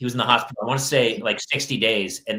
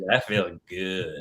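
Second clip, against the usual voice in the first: put-on drugged kid voice; 3 semitones lower, much slower than usual. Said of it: "She was hammered".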